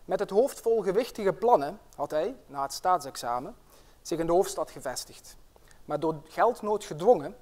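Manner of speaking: once-upon-a-time storytelling voice; fairy tale narration. Acted. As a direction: tell it like a fairy tale, with drama. Reads a fairy tale aloud.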